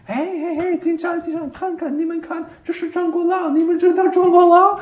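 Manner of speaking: high, loud, laughing call to the policemen; laughing excitedly. Retold or imitated. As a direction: bubble over with glee, calling them over. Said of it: "And I'm laughing".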